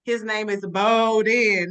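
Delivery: "Bowden" drawn out slowly and firmly; careful pronunciation demo. Shown as a demonstration. Author's voice note teaching a narrator the name "Bowden", slow and deliberate. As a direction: spell out "Bowden" by ear, slow and loud. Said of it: "I literally will say".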